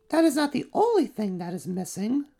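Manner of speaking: high, dry aside to herself; a royal musician grumbling under her breath; musician muttering aside. Acted. Royal musician remarks to herself about what's missing. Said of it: "said the royal musician to herself".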